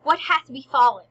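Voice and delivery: high, booming theatrical king; acting the King. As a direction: burst in with a big, loud stage greeting. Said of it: "and King's like".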